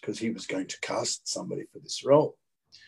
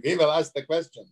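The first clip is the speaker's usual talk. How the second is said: put-on stage German accent, pitched higher; 4 semitones higher than usual. Actor auditioning as a German, higher put-on German accent. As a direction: play a hammed-up German character. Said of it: "I'm being this kind of German character".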